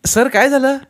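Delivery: high-voiced anxious question; concerned colleague. A narrator's reading. Kadam asking the principal what happened, high and anxious. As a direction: ask the boss with concern.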